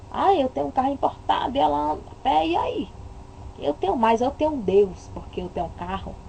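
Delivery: fast, smug bragging voice; mock boastful rich man. Mocking a rich believer who looks down on the poor, smug. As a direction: show off the imported car.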